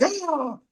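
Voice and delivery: high drawn-out "ah" of celebration; mock cheer. Teammates celebrating the pretend lift, high mock cheer.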